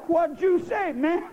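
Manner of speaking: loose, casual slang drawl. Retold or imitated. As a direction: say it loose and laid back. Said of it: "They say".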